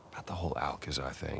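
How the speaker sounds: hushed aside. Acted. Brother whispering an apology about Alcazar to Nathan. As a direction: breathe it, unsure you should bring it up. Raising a touchy subject.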